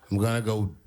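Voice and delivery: slow, building to a high shout; mock threatening announcement. Comedian voicing a rapper's tweet to a crowd, mock threatening. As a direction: draw it out into a big high-pitched threat. Reading out a menacing tweet as its writer.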